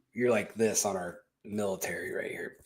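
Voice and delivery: whispered aside; low conspiratorial whisper. Real, not acted. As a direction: hush it like a secret.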